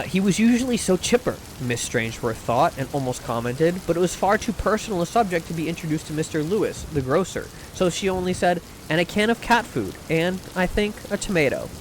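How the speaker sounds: measured, softly read storytelling; audiobook-style reading with light dialogue; story narration. A narrator's reading. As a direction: read it aloud like a genteel short story. Reads a short story aloud.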